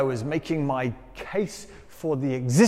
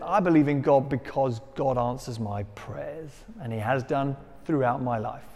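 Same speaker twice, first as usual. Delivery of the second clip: plain, lower-pitched quoted reply; matter-of-fact; 4 semitones lower, 5 dB quieter than usual. Retold or imitated. Farmer answers the professor's question about faith, matter-of-fact. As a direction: state it simply, low and unforced. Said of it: "in a very matter-of-fact way".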